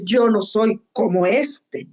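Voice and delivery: slow, smug self-righteous prayer; smug Pharisee. Retold or imitated. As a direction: drawl it like a proud Pharisee.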